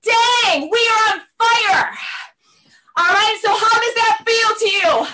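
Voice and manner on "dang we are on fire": higher, punched-out mock boast; excited. Instructor voices a class member feeling on fire, excited. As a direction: act out being thrilled with yourself. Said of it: "excited to feel when you're like".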